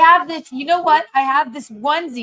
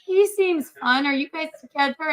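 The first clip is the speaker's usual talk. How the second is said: mock cashier lady; 5 semitones higher than usual. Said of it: "she was like".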